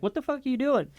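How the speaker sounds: shocked outburst. Retold or imitated. Retold shock at cop yanking him.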